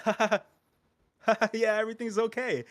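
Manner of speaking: loud, high put-on laughter into reassurance; fake cheery laugh. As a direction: force a high, loud ha-ha as if all is fine. Dragonborns' forced cheery cover-up laugh.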